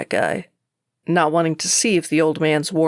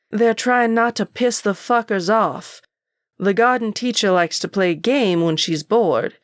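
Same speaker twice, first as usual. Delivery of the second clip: scornful rant; 5 semitones higher than usual. Acted. Angry man scolds cocky student.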